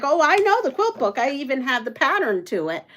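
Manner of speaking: excitedly chiming in, pitch jumping up at the start; retold excitement. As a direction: act out your own excited answer. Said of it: "So I'm so excited".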